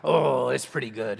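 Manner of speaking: drawn-out pirate talk. Shown as a demonstration. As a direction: stay in pirate character, stretching the words. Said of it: "you're a pirate".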